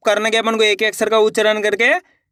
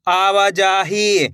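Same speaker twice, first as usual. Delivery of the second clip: आवाजाही drawn out slowly; slow reading; much slower than usual. Shown as a demonstration. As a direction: read आवाजाही slowly, joining each syllable. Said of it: "कैसे पढ़ेंगे?". (आवाजाही धीरे धीरे)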